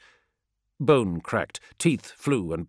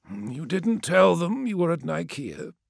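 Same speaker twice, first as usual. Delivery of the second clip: gloating; 10 semitones higher than usual. Acted. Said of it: "said Menkora with a wide grin".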